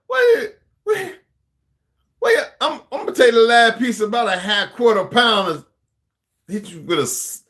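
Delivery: high, loud mock threat; hammed-up squawking outrage; ranting movie character. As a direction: rant way up high, imitating the character. Acting out the character's rant again.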